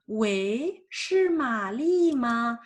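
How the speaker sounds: slow phone greeting with a rising wei; answering a phone call in Chinese. Shown as a demonstration. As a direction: pick up the phone and ask who it is. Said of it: "Par exemple".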